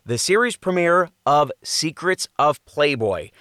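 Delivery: dramatic teaser read with rising hype; tabloid tv host. Acted. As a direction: sell the scandal like a TV promo. Promo read for docuseries.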